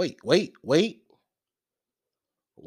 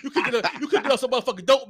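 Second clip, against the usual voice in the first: wild rambling cackles; faster than usual. Acted. Teasing accusation, fast.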